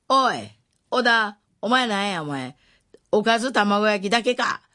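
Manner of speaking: loud, high mocking jeer across a classroom. Boy jeering loudly at classmate's lunch, loud mocking call. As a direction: call it out loud so the whole room hears. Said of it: "って大きな声でね".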